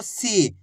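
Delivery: "सी" with a long held ई; long drawn-out ī. Shown as a demonstration. Teacher joining सा and the vowel sign, "सी" drawn out. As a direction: draw out the vowel of "सी". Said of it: "बड़ी ई की मात्रा को खींच के पढ़ा जाता है".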